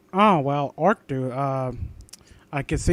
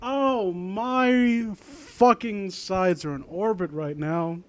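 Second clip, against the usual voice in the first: laughing; 6 dB quieter, much slower than usual. Real, not acted. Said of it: "I am in stitches".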